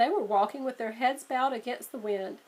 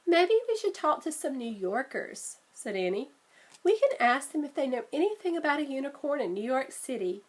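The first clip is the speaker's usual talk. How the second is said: a hint of a bright little girl, a bit quick; lightly voiced Annie; 3 semitones higher than usual. Sister suggesting they ask New Yorkers, lightly girlish. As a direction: nudge the pitch up for the sister.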